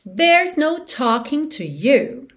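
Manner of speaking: slow, drawn-out lyric line; song rhythm. Shown as a demonstration. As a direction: recite it slowly in the song's rhythm. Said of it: "te dando no ritmo da música".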